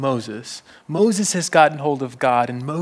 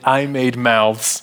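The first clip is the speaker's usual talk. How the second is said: slow, deliberate I made mouths; slow emphatic God; 3 semitones lower, 5 dB louder, slower than usual. Acted. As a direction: spell it out to Moses word by word. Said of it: "To which God says".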